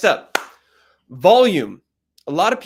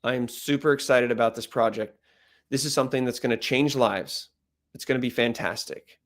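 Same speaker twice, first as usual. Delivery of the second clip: lower, softer, flat monotone; flat unenthusiastic; 4 semitones lower, 3 dB quieter than usual. Shown as a demonstration. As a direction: say excitement with no life. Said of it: "Ready? ... doesn't match with my tone".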